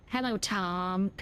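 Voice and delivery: slow, drawn-out American Hello, Tom; American accent. Shown as a demonstration. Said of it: "Found all American accent there".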